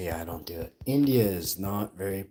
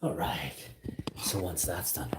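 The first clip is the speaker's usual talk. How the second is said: whisper; 2 semitones lower, 7 dB quieter than usual. Real, not acted. Quiet aside while making tea.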